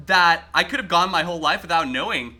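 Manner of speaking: honest appreciation of a weird fact; mean it, glad to have learned it; sincere, in a good way. Shown as a demonstration. Streamer tells chat he means the fact sincerely, genuinely pleased. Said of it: "in a good way".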